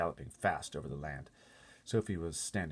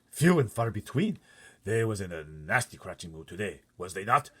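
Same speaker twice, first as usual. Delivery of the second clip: lightly voiced giant; 3 semitones higher, 9 dB louder than usual. BFG after escaping giants.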